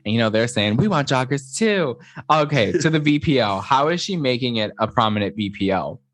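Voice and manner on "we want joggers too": slightly high, drawn-out camp imitation; gay, octave-up voice. Retelling how she quoted the men, lightly camp higher voice. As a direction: raise it a bit and draw it out. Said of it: "she got so gay".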